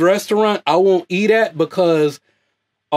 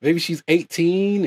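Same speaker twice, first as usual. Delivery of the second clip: hushed inner thought; 5 dB quieter than usual. Retold or imitated. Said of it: "I was like".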